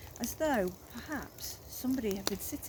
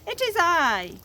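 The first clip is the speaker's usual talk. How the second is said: slow, louder booming creature voice; deep melodious voice; 9 semitones higher, 10 dB louder, slower than usual. A narrator's reading. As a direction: roll it out grandly. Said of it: "deep, melodious voice".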